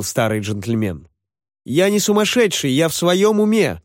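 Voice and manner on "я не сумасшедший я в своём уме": high, whiny protest; mock whimper. A narrator's reading. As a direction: whimper lightly like a wronged boy. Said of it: "захныкал жирный парень". (высоким голосом, притворно хныча)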